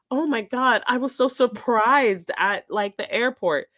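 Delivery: high, sing-song mock of a clueless traveller; mocking surprise.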